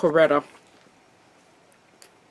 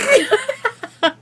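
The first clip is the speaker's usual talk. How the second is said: shrill giggle; high squealing laugh; 6 dB louder than usual. Real, not acted. Laughing at phantom hands.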